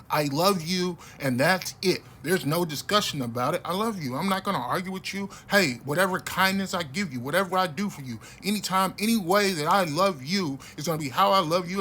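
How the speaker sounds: a fierce, shouted promise of loyal love; impassioned quote. Retold or imitated. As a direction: preach it like a vow you'll never break. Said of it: "one of my favorite quotes from D M X".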